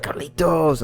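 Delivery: mock Spanish accent. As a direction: imitate a coworker's condescending Spanish accent on "Carlitos". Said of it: "he says it like that too".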